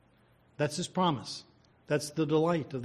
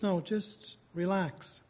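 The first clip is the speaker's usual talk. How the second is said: higher, gently drawn-out reassurance, lightly voiced; soothing Holy Spirit; 5 semitones higher than usual. Holy Spirit tells believers not to fight, lightly voiced soothing counsel. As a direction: lightly act out a calming counsel, easing into each phrase. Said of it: "The Holy Spirit says".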